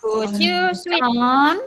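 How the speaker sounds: slow, careful dictation of Could you switch on; slow model sentence. Shown as a demonstration. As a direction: spell out each word slowly for the class. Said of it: "teacher models sentence slowly".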